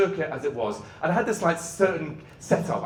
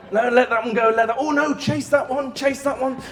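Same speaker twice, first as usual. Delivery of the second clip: racing self-talk; 8 semitones higher, 5 dB louder than usual. Retold or imitated. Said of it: "and going".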